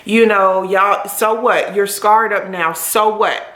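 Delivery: steady and unhurried, lifting her up; speaking life into me. Retold or imitated. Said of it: "He started telling me".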